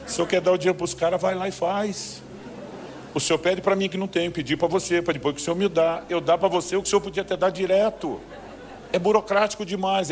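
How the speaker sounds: mock protest about bureaucracy; exasperated complaint. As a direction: argue with God like a fed-up clerk. Arguing with God, exasperated.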